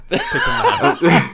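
squeaked out through real laughter; laughing. Real, not acted. Teasing the host who forgot the name, laughing it out. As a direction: laugh the name out, pitch jumping high and slow.

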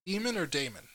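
DEMON as DEE-mun, then DAEMON as DAY-mun; alternative pronunciations. Shown as a demonstration. Co-host asks which way to say it, contrasting DEMON and DAEMON. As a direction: set DEMON against DAEMON, long ee then ay. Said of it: "ask how you pronounce it".

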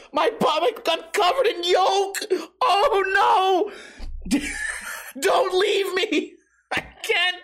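high mock sobbing, overacted grief; hammed-up wailing. Buddy mock-wails over his egged friend's body. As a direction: wail like your best friend is dying over egg yolk.

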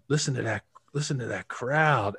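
lightly put-on Carolina coach accent; Alex Gibbs. Line coach leading players out, imitated North Carolina accent. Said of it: "Southern North Carolina accent".

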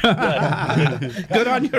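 laughing. Real, not acted. Laughing at a mate's joke.

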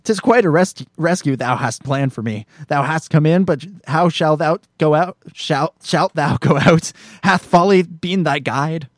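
a haughty Shakespearean princess scolding a fool; lightly played royal indignation; Princess Leia. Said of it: "Princess Leia says".

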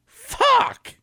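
sudden high yelled swear; shouted curse. Pretend. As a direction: yell it out high and loud. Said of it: "give me some exclamations".

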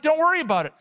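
lightly voiced God. Preacher voicing God's answer to failing believers, lightly booming. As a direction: reassure grandly as God. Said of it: "God's like".

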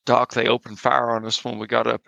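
a relaxed Southern Tennessee twang, lightly done; Tennessee accent. Acted. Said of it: "I got talking my Tennessee accent".

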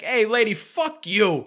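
hammed-up dismissive shout; misogynist outburst. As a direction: imitate an angry man yelling at a woman. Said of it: "in true fucking misogynist fashion".

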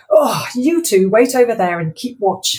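loud stern command; stern order. Acted. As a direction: order the dogs about. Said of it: "Wendy ordered Left and Right sternly".

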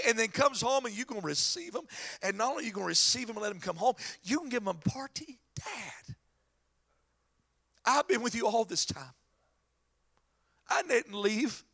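hurt, understated protest to dad; aggrieved son pleading his case; mad older son. Acted. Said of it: "And the son's mad".

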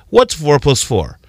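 slow, patient teacher question, What's four plus four? asked kindly; a light teacher voice putting What's four plus four? to the class; teacher asking. Retold or imitated. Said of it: "When a teacher asks you".

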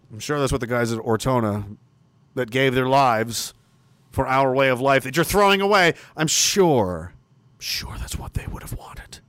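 low, soft, slowing sarcasm fading to a whisper; bitter sarcasm. Real, not acted. Streamer sarcastically invoking fallen soldiers, bitter and hushed. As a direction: let the contempt sink to a hiss.

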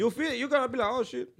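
lightly put-on Mexican accent; mock Mexican-accented excuses; Mexican landlord. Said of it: "like the Mexican landlord".

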